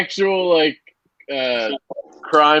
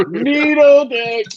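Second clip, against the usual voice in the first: high, slow, stretched hick voice; Water Boy impression; 11 semitones higher, 3 dB louder, much slower than usual. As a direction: squeak it out slowly like a dim country boy. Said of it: "Kyle probably hears guys from the Water Boy".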